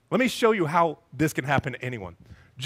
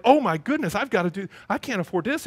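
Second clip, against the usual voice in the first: mild mock panic; 3 semitones higher than usual. Panicked debtor reading card statement.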